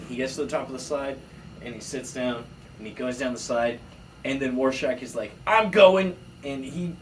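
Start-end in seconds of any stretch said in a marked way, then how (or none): 5.5-6.2 higher, louder excited puppy; eager dog voice. Pretend. Puppy rushing down the slide, eager loud voice.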